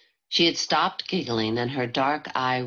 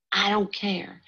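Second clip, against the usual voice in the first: I don't care said higher, stubborn; first I don't care, sulky and high; defiant; 6 semitones higher than usual. Acted. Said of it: "said Frankie angrily".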